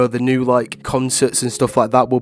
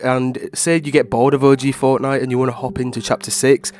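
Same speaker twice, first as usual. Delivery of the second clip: stuffy, congested voice; blocked nose. Real, not acted. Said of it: "sounds like someone's holding my nose".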